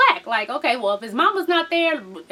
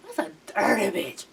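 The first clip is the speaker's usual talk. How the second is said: low, soft disapproval; muted disgust; 5 semitones lower, 6 dB quieter than usual. Real, not acted. Viewer judging the mother's advice, muted disgust. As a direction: say it low under your breath.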